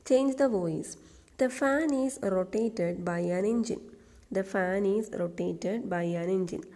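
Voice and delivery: slow, deliberate exam question read-out; slow dictation reading. Shown as a demonstration. Teacher reading a PSC question aloud slowly. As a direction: read each word slowly for the class.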